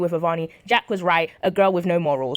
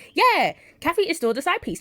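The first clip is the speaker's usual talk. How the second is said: mocking exclaim; 10 semitones higher than usual. Real, not acted. Mocking exclaim about affair.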